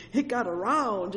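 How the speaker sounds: usual speaking voice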